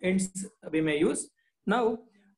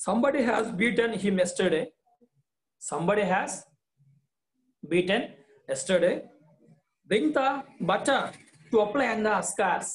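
lightly voiced father, raised and urgent; anxious father; 3 semitones higher, faster than usual. Teacher voicing the father asking Swami again, worried. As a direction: plead with the child to tell. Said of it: "asked the father once again".

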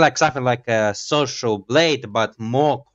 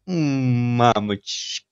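Russian exclamation; much slower than usual. Pretend. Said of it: "That's actually a Russian word".

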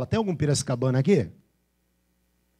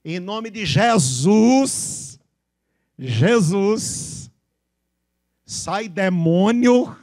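loud, very slow, stretched Bahian exorcism cry; higher, drawn-out Bahian imitation; Bahian accent; 4 semitones higher, 6 dB louder, much slower than usual. Shown as a demonstration. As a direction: exaggerate a baiano casting out a demon. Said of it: "É a maneira de falar".

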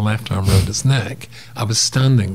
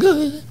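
imitated frightened cry. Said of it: "I'm sort of like going".

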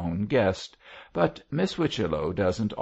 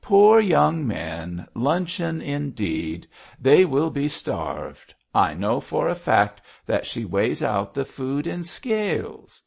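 loud exclamation; 6 semitones higher, 5 dB louder than usual. A narrator's reading. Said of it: "exclaimed in a loud voice".

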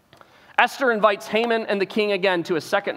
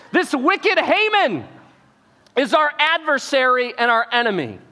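accusing queen; 6 semitones higher, 4 dB louder than usual. Retold or imitated. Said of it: "and says".

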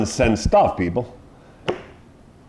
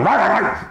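mock dog growl; 5 semitones higher than usual. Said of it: "is going".

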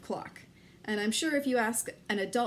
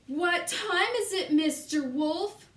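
excited call; 6 semitones higher than usual. Acted.

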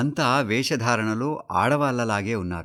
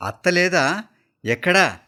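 irritated; 8 semitones higher, 5 dB louder than usual. Acted. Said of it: "చిరాగ్గా".

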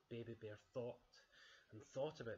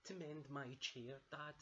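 high little bear voice; Baby Bear asking; 5 semitones higher than usual. Acted. Baby Bear asks Dad about the broken chair, high cub voice. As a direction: ask it like an eager bear cub. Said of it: "asked Baby Bear".

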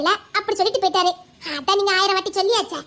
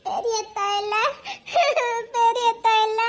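tearful, drawn-out protest; plaintive lamenting cry; wailing; slower than usual. Acted. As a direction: sob between the phrases. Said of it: "நீ ஒப்பாரி வச்சுதான் சொல்லணுமாக்கும்".

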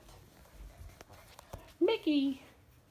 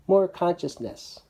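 loud, rallying chant of more; passionate shout; 7 semitones higher, 12 dB louder than usual. Pretend. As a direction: shout it like a protest leader.

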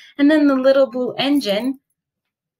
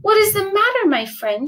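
kind question; 9 semitones higher than usual. A narrator's reading. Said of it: "she asked kindly".

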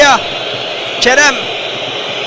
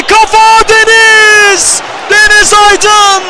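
screaming football commentator; 3 semitones higher, much slower than usual. Real, not acted. Big save called live.

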